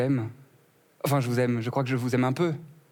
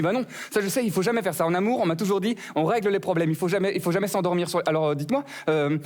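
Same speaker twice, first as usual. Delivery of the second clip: higher, insistent flower voice; rose's voice; 5 semitones higher than usual. Acted. The wilting rose insists the comic keep her awake. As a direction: fuss at him to stay awake.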